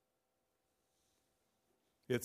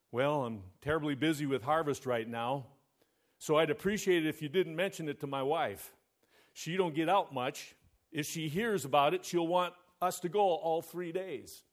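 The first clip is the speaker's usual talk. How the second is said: monotone voice. Acted. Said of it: "remarked in a monotone voice".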